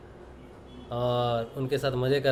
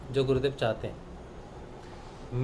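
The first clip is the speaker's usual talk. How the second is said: slow, soft and weighty; slow emphasis; 5 dB quieter, much slower than usual. Real, not acted. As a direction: lay each word down slowly for weight. Key point of the teaching. (धीमे, भारी ज़ोर से)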